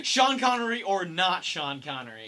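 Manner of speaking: laughing through the name; amused, laughing the words out. Real, not acted. Laughing at friend's slip.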